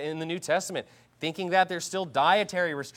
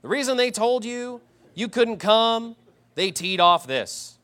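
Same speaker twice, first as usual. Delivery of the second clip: slow, drawn-out mock Southern accent; annoying Southern accent; 5 semitones higher, slower than usual. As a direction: mimic a preacher's Southern accent, stretching the words. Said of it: "he's one of these guys with a really annoying Southern accent".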